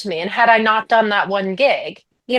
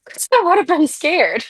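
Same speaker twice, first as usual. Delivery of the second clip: laughing; 6 semitones higher than usual. Real, not acted. Admits nerves, laughing.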